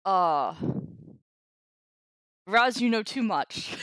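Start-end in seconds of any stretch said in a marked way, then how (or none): 2.5-3.8 laughing shout. Real, not acted. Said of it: "the comment in chat that made me laugh".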